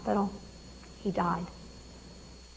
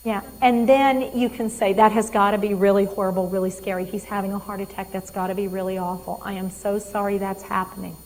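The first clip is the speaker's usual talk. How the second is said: empathic caregiver; 2 semitones lower than usual. Shown as a demonstration. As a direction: comfort a worried patient gently. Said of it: "So you say".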